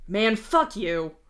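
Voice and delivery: slow, loud mock snap; angry snap. Father to the ghost Matuna, slow loud snap. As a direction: throw the insult back at him. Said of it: "you snap at him".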